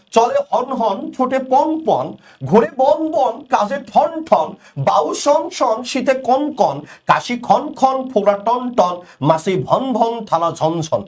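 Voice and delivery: teacher reciting a Sukumar Ray rhyme to students, rhythmic; poem recital. Acted. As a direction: recite the rhyme with a steady beat.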